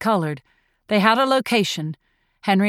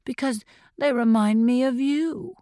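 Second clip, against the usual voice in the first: sweetly; 4 semitones higher than usual. A narrator's reading. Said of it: "she said sweetly".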